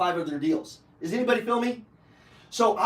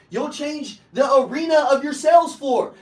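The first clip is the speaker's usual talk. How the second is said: rousing shout; 4 semitones higher, 6 dB louder than usual. Real, not acted. Motivational peak, shouted.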